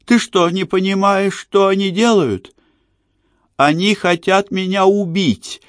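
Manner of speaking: high, panicked screaming plea; terrified scream. A narrator's reading. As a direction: scream for help in terror. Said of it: "Вдруг она сорвалась на крик".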